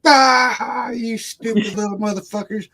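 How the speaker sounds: put-on high, cracking yell at the kids; hammed-up high shout of abuse; mock angry yell. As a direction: bellow it like a grumpy uncle hamming it up. Uncle yells at kids, then laughs.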